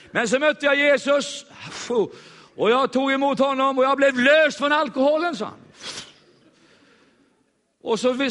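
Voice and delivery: high, loud joyful testimony; joyful convert. Retold or imitated. Convert telling the preacher about his new faith, loud and high.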